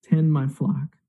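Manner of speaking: slow, tender retold commission; gentle charge. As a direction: give each charge slowly and calmly, with space between. Jesus reinstates Peter, retold.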